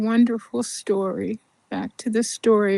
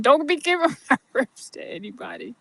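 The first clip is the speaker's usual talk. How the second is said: half-laughed, quick mock warning; laughing demand; 3 semitones higher, much faster than usual. Labouring mother jokingly yells about her ribs, laughing. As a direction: laugh through the order.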